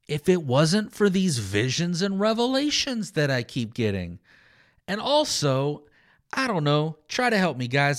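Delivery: dry, mock-humble agreement that drips with irony; sarcastic Paul. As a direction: play Paul humouring his critics with a sly smile. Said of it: "Paul is being sarcastic throughout the whole thing".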